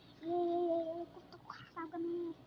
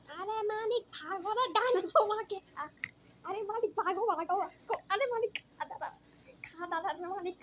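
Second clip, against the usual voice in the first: hammed-up terror at a dinosaur; mock panic; 2 semitones higher, 7 dB louder than usual. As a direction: scream for the boss to run.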